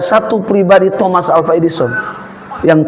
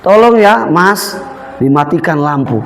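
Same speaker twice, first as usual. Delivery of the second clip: slow, gentle and polite Jakartan asking; gentle Jakartan asking to turn off the light; polite Jakarta request; slower than usual. Retold or imitated. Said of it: "Tapi kalau mereka".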